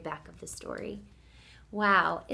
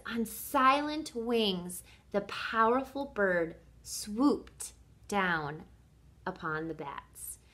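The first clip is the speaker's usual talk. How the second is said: slow, dramatic storybook reading; savored reading; slower than usual. Shown as a demonstration. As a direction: linger on each phrase, hushing at the end. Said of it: "Listen again to what she says".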